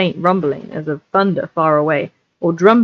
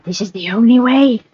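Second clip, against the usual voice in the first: high creature voice, hushed; whispered Gollum; 5 semitones higher than usual. Acted. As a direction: insist like Gollum. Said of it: "whispered Gollum".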